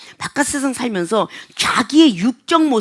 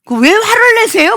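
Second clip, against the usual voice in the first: raised, high challenge; loud, angry-sounding; 9 semitones higher, 5 dB louder than usual. Acted. Customer asking staff why they are angry, loud and high. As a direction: challenge them in a big raised voice. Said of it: "목소리가 크니까 화나는 것처럼 들리죠?".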